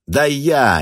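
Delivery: high, loud panicky yell; hysterical shouting. Acted. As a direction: shriek it in a panic. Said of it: "истерично закричал Вус".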